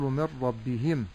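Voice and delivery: من ربهم with bi and hi dragged long; lengthened kasra. Shown as a demonstration. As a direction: stretch the last i vowels of من ربهم. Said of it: "ولا أقول". («من ربهم» بإشباع الكسرات خطأً)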